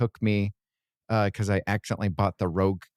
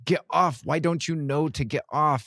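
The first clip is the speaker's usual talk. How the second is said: higher-pitched exasperated quote; mock exasperation; 6 semitones higher than usual. Speaker imitates urging the boy off the electric fence, mock exasperation. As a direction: lightly act out urging someone, pitch lifted.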